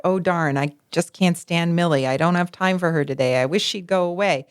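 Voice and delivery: low, mildly grumbled complaint; grumbling under breath. Retold or imitated. Mother privately complaining about a visiting neighbor, mildly grumbling. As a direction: grumble to yourself, only lightly acted. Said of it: "grumbling under her breath".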